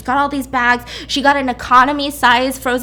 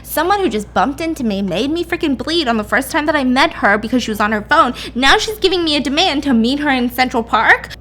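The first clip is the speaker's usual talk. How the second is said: mildly hammed-up incredulous rant; indignant disbelief; 3 semitones higher than usual. Jules reacting to Ingrid's demand to meet, indignant. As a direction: protest in lively, questioning disbelief.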